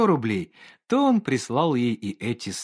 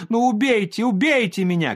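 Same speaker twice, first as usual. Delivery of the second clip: much higher and louder, shrill desperate cry; hysterical cry; 10 semitones higher, 5 dB louder than usual. Acted. Olga screams at the painter to kill her, hysterical cry. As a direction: fling it at him in hysterics. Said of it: "крикнула Ольга Ивановна".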